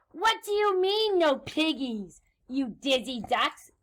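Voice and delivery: high-starting outraged mock screech; witch's screech. Witch scolds ducks over missing piggies, mock screech. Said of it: "Grinch screeched".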